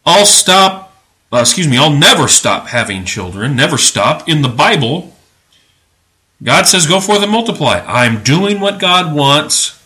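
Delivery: lightly imitated southern accent. Preacher quoting a jobless British father, mock southern accent. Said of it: "he had a southern accent".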